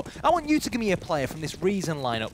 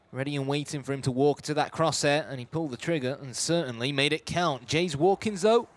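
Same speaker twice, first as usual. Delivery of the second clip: running esports commentary in measured phrases; live play-by-play. Real, not acted. Esports caster follows a retake of the bomb site, live play-by-play. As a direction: narrate the action as it unfolds, phrase by phrase.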